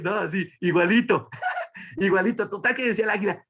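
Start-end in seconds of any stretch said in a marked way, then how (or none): 0.1-2.5 laughing. Real, not acted. Laughs at own comparison.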